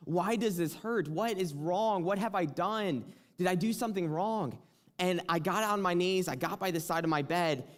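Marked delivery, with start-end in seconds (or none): 0.0-4.6 retold crying out to God. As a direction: ask God why it hurts, higher and pained. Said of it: "I was just crying out to the Lord".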